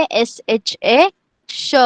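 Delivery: slowly name एस, एच, ए, then sound श; एस एच ए, pause, श; spelled-out pronunciation. Shown as a demonstration. Teacher showing both letters share one sound, श spelled out slowly. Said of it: "दोनों का pronunciation है श".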